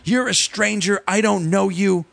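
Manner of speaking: hint of a little girl scolding; lightly voiced bossy little girl. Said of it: "she starts saying things like".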